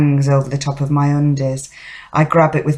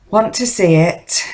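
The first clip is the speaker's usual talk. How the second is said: short, higher-pitched prompt; insistent follow-up to a bold offer; pressing the offer; 5 semitones higher than usual. Acted. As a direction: press the question with lifted pitch. Repeats proposition to silent husband.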